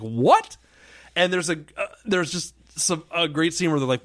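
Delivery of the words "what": loud, incredulous "what"; mock disbelief, punched out. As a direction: act out a baffled reaction. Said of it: "incredulous, just kinda like".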